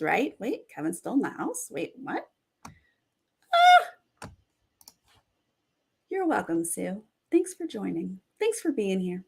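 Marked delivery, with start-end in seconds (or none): 3.5-4.3 sudden high yelp of shock; shocked shriek. Real, not acted. Streamer shrieking at the live finale twist. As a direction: let out a sharp high shriek.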